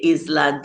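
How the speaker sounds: ISLAND as "IZ-land", the silent S voiced; mispronounced island. Reading out a chatter's old way, island mispronounced. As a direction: say "Island" with a Z sound after the I. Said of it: "I used to say".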